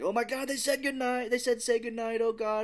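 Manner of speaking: high-pitched frantic captive; mock panic. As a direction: imitate a man sure he's about to die. Acting panicked British captive.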